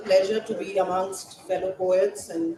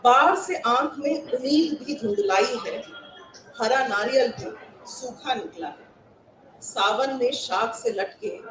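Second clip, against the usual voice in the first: हिंदी कविता पाठ; Hindi poem recitation; 2 semitones higher, much faster than usual. Acted. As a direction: recite it to a hall of fellow poets.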